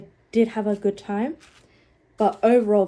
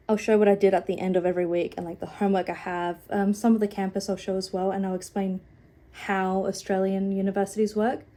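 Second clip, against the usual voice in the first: nasal and out of breath; stuffy, breathless nasal cold voice. Real, not acted. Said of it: "sorry, I feel far out, really nasally, really out of breath".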